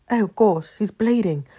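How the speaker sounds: put-on accidental British accent, dismayed. Reacting to a bleeding friend, sudden British accent. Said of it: "I don't know why I became British".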